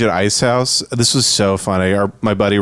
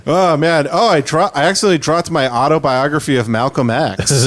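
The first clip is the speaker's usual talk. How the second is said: higher, over-casual nervous white guy; mock nervous white guy; 4 semitones higher than usual. Friend adds to the bit, high and hammed-up white guy.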